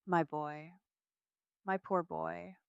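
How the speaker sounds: understated tearful lament; crying. A narrator's reading. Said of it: "Mom starts crying on the gurney".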